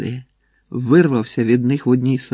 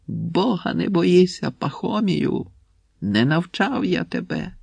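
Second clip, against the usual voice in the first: cry with last strength; 6 semitones higher than usual. A narrator's reading. Tortured Pepelenko crying out to Pakhomiy, high strained cry. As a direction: cry out in pain with what strength is left. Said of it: "зібрав решту сил, закричав".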